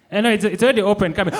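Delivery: high, fast, laughing welcome; brisk cheerful host at the door; Boniface Mwangi impression. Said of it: "Boniface Mwangi answering his doorbell".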